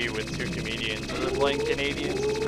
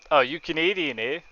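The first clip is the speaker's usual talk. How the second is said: light mock Canadian accent on you Canadian, eh; 2 semitones higher than usual. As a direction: tease with a hint of Canadian accent. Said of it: "talk to me like I'm some kind of hoser".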